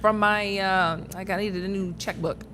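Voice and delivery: code-switching voice. Shown as a demonstration. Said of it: "you just need a prompting".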